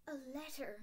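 whispered, faint repeat; faint echo. A narrator's reading. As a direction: breathe the words in disbelief. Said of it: "repeated Professor McGonagall faintly".

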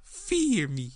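high, booming self-proclaimed god; alien overlord. Acted. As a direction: demand worship, loud and slow. Puppet proclaims itself god.

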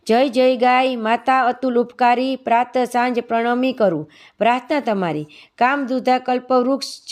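measured, even hymn reading; spoken praise poem in steady metre; devotional verse recitation. Acted. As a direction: recite it as a morning prayer, line by line.

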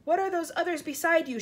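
shouted question. A narrator's reading. Police chief asking James about creatures, shouting. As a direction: call the question upward. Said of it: "shouted the chief of police".

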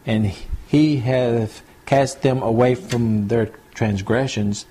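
put-on slow, measured reading of old Bible words; slow scripture reading. Preacher reading Job aloud to the congregation, slow and solemn. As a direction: read the verse slowly, weighing each line.

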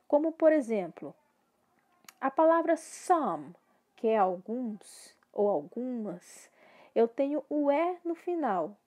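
ordinary talk

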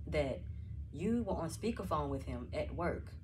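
slow, deliberate accusing tone; slow accusation. Acted. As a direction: lay out each charge slowly.

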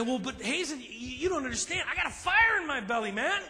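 a hint of a fired-up congregant; eager listener. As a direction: play the impatient zealot. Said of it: "you might say to me".

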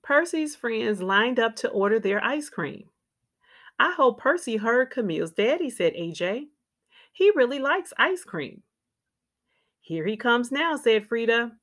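put-on lively, clearly phrased read-aloud for young children; picture-book narration. A narrator's reading. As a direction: read a children's story with expressive ups and downs.

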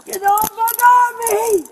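yelling. Real, not acted. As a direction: shout to be let go. Struggling against arrest.

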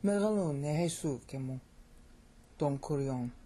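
Megalune sukemu, Don kurion with LU and SU stressed; correct flowing stress. Shown as a demonstration. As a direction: recite "Megalune sukemu" smoothly, then "Don kurion" lightly. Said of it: "See how much better that sounds".

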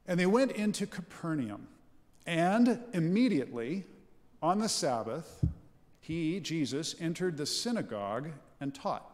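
measured, solemn Bible reading; scripture reading. Acted. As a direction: read the passage out to the congregation. Reads the Gospel aloud.

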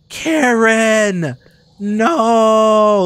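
loud cry of alarm; alarmed shout. Real, not acted. Gamer yelling at a fallen companion. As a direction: shout her name in shock.

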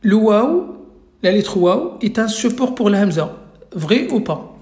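teacher projecting a quiz question; emphatic question. Shown as a demonstration. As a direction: call it out firmly so the whole class hears. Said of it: "Alors, écoutez bien".

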